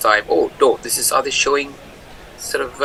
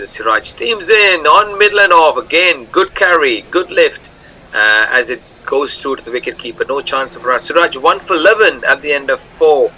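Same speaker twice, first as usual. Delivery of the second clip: muffled, echoing, like through a tube; boxed-in broadcast sound from a tunnel pipe; in a pipe inside a tunnel. Real, not acted. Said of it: "a pipe inside a tunnel at the moment".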